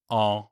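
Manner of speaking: En with the mouth open, air through the nose; an open nasal En. Shown as a demonstration. Teacher modelling the open-mouth nasal sound. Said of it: "open your mouth".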